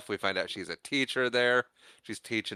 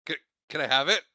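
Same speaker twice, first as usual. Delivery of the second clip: eager dude; 5 semitones higher, 3 dB louder than usual. Retold or imitated. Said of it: "And Doug's like".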